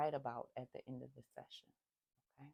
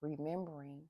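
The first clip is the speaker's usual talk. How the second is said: hiccups. Real, not acted. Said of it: "I have the hiccups".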